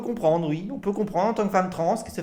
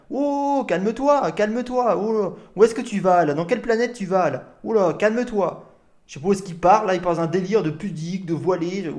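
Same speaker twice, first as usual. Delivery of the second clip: mocking calm-down. Streamer tells the ranting man to calm down, condescending. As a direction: talk him down like a ranting kid.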